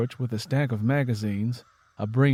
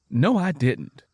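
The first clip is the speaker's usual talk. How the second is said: lying; 3 semitones higher, 4 dB louder, slower than usual. Acted. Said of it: "Lenny Gray lied".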